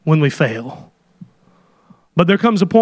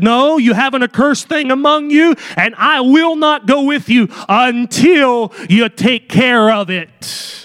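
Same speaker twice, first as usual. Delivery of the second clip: firm God; 5 semitones higher than usual. Retold or imitated. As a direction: lay down the law, word by word. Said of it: "He said".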